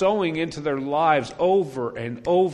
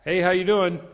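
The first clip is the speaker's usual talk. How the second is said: bright, louder hello across the yard; cheery loud greeting; 6 semitones higher, 6 dB louder than usual. Retold or imitated. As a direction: call out a friendly hello. Greeting unresponsive neighbor.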